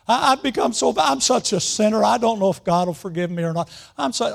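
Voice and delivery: hammed-up tearful rambling, cut short; mock crying. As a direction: imitate a widow blubbering out her guilt. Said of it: "she's crying again".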